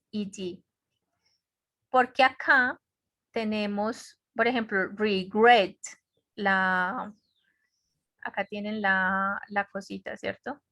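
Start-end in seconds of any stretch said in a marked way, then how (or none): 5.0-5.8 "regret" with a louder GRET; stress on second syllable. Shown as a demonstration. Teacher showing where the accent goes, "regret" stressed on GRET. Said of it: "acá es donde va el acento".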